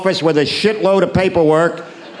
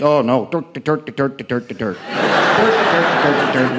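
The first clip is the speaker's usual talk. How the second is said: Irish heckler; 3 semitones lower, slower than usual. Retold or imitated. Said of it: "Irish in here who think".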